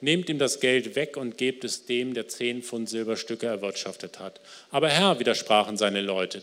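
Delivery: ruhiges, getragenes Vorlesen eines Gleichnisses; erzähl die Geschichte langsam und feierlich; Bibellesung. Acted. Liest das Gleichnis vor. (Prediger liest der Gemeinde das Gleichnis vor, getragen)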